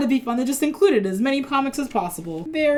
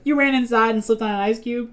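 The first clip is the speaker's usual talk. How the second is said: imitated light country twang; a touch of cartoon country twang; Sandy; 2 semitones higher than usual. Quoting the SpongeBob character, light country twang. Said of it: "like, when Sandy says".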